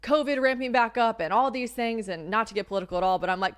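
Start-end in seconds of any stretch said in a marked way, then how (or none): none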